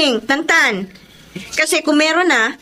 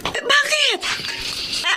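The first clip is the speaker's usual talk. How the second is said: surprised; 6 dB quieter than usual. Acted. Brother says he'll pay bills.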